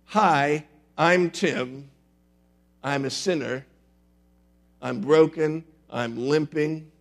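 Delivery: loud, earnest church confession; confessing sinner. Shown as a demonstration. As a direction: proclaim your brokenness to the room. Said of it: "I'm going to have you do something like this".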